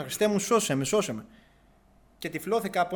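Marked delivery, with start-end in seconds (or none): 0.0-1.3 mild mock cry for help, a bit louder; calling out to Christ, half-performed, raised voice; retold crying out. In the ICU, begging Christ to save him, a raised mock cry. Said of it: "Και άρχισε και φώναζα".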